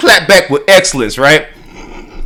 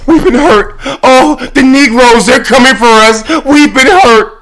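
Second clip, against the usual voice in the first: mock wounded wail, higher; mocking fake crying; 4 semitones higher than usual. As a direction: ham up a fake victim's sob. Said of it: "she's pretending to be, to be crying".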